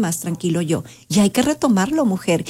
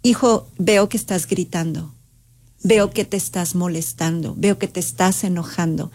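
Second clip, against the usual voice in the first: calm validating mother; 3 semitones lower than usual. Shown as a demonstration. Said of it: "Mira el tip que puede desarmar".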